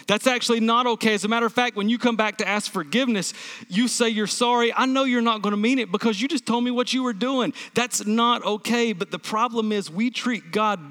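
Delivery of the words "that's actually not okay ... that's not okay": acted firm rebuke, pitched higher; firm objection. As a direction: push back as the wronged partner. Acted reply of a wronged partner.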